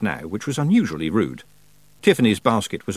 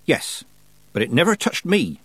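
put-on higher, triumphant old witch; 7 semitones higher than usual. A narrator's reading. Granny boasting to Tiffany about moving heat, triumphant. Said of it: "said Granny triumphantly".

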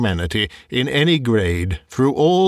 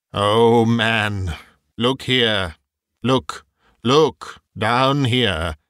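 exclaimed; much slower than usual. Acted. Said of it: "exclaimed the ghost".

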